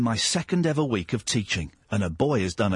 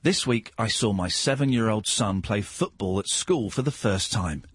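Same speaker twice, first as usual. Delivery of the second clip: Radio Four voice; 3 semitones lower than usual. Acted. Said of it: "that's my Radio four voice".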